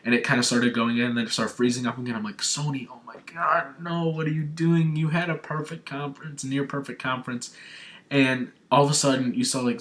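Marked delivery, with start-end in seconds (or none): 2.4-7.6 higher-pitched pleading with Sony; lightly acted distressed fan; mock dismay. Acts out dismay at stream freezing.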